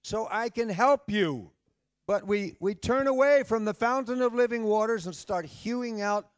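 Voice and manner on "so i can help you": loving father's plea. Acted. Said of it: "a loving father who's saying".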